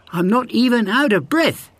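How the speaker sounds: high, bragging hare voice; boastful hare. A narrator's reading. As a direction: brag like the cocky hare. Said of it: "he shouted".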